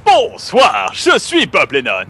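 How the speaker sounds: superhero voice. Pretend. Superhero intro in costume.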